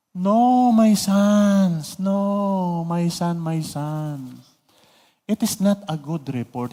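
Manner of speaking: a father's firm rebuke trailing off into sorrow; stern father. Shown as a demonstration. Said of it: "Yung tono?". (mahigpit na pagsaway ng ama na humihina)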